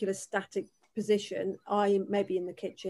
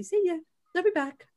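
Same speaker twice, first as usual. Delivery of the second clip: affectionate farewell; 9 semitones higher than usual. Retold or imitated. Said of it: "give her a big snog on the head and say".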